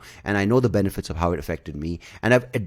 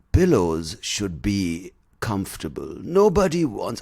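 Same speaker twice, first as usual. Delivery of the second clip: slow pitchman voice; slower than usual. Retold or imitated. Quoting pillow ad guy.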